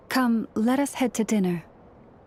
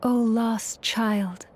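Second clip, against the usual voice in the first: solemn incantation. Acted. Lauma blessing the sick girl Karina, solemn incantation. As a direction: intone the healing rite.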